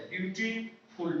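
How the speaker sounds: ब्यूटीफुल said slowly, split into ब्यूटी and फुल; slow syllable split. Shown as a demonstration. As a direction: break ब्यूटीफुल into its two parts for the class, slowly. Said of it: "दो word है".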